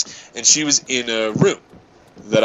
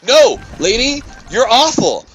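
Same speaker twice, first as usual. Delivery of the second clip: retold rant; 9 semitones higher than usual. In the car, berating the old lady, high. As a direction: tell her off, voice raised high. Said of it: "I'm trying to explain to her".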